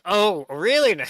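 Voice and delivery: loud, drawn-out mock-suspicious guard; hammed-up, slow questioning guard; imitated guard. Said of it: "the guard's like".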